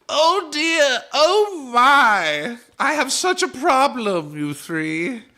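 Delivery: high, loud fretting goblin wail; distressed goblin. Acted. Goblin begging the party for help, high and fretful. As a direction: whimper like a troubled little goblin.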